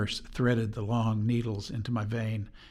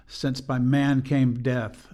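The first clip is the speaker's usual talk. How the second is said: slow, grave reading of "Since by man came death", weight on "man"; slow and mournful; 4 dB louder, slower than usual. Shown as a demonstration. Host describing the anthem, reads the line slow and mournful. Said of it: "a slow and mournful passage".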